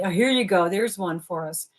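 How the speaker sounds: usual speaking voice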